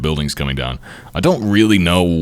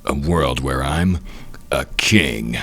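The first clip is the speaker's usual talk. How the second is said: brooding inner monologue. Acted. Voices a character's brooding inner monologue.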